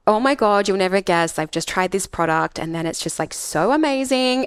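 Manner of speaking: mock a sponsored Instagram ad with a rising trill; imitating a gushing influencer. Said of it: "and then they just do this trill".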